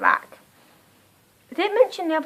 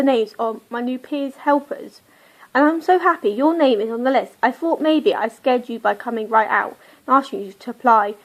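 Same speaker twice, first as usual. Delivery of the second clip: steady, even book reading; reading aloud. Acted. Vlogger reading the novel's opening to viewers, steady reading voice. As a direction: read the passage to the camera.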